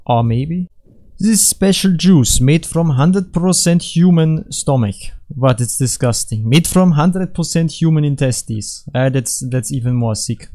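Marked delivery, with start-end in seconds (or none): 1.2-5.0 high, slow sales patter; drawn-out fake commercial voice; hammy product pitch. 6.5-8.9 higher-pitched mock advert; lightly put-on sales patter; hammy product pitch. Second fake product pitch.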